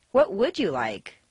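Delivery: "would" given extra weight, falling finish; stress on WOULD. Shown as a demonstration. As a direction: ask for specific wishes, leaning on "would". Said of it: "determine his specific desires".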